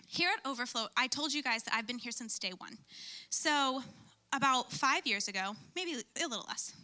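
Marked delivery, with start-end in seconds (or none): 3.3-6.7 out of breath. Real, not acted. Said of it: "let me catch my breath".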